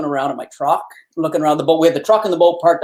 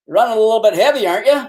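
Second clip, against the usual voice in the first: quick, higher-pitched mock accusation; intimidating cop; 5 semitones higher, 3 dB louder, faster than usual. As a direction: play the big cop needling a suspect. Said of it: "intimidating bastard".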